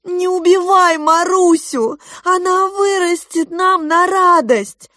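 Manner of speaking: high, loud desperate plea; mother begging the crab. A narrator's reading. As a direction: plead for your child's life. Mother begs for daughter.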